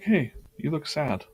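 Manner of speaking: monster voice. Pretend. Monster drawing voiced comforting a boy.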